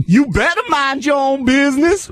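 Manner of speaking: high, sassy Black woman impression; imitated Black woman. Pushy lady retorting on the train, mock Black woman's accent. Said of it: "Now she's black".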